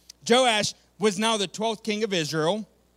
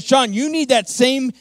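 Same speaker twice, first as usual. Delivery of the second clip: urgent appeal; 5 dB louder than usual. Retold or imitated. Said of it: "I said".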